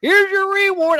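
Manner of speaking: put-on scream at a very high pitch. Retelling screaming at a son batting in baseball: retelling own past scream. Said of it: "I would scream that".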